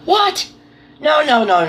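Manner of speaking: high, sharp startled what; panicked denial. Retold or imitated. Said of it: "I was like".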